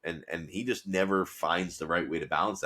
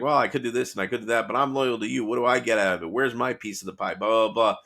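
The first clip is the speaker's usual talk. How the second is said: mock whining, a little higher; lightly acted, higher-pitched complaint; whiny; 4 semitones higher than usual. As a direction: imitate someone whining about his share. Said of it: "he's very whiny".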